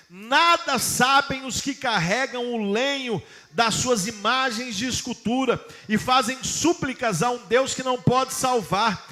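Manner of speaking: slow, measured Bible reading; slow, solemn reading from Isaiah; solemn scripture reading. Acted. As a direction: read the prophet's words with weight. Reads Isaiah aloud.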